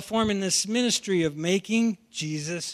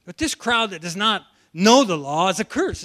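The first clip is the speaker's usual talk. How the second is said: louder, mildly indignant outburst; mock denunciation with raised volume; going off, acted; 5 dB louder than usual. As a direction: act out officials going off on a crowd. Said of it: "they just go off on the crowd".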